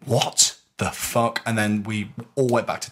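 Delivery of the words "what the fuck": slow, drawn-out retold shock; dumbfounded and slow; stunned disbelief. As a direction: draw each word out in disbelief. Retold shock, said a second time.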